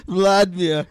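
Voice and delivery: hammed-up seductive name; mock sultry echo. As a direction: copy the vamp voice, laughing.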